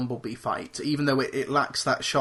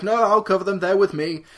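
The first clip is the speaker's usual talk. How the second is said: Hopkins quote; 4 semitones higher, 5 dB louder than usual. Retold or imitated. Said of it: "And he's like".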